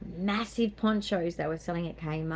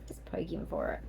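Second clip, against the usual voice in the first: whispering; 7 dB quieter than usual. Real, not acted. Conspiratorial aside to friend.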